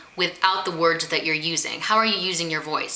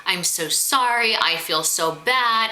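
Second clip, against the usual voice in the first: over-apologetic; 3 semitones higher, slower than usual. Retold or imitated. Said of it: "people are like".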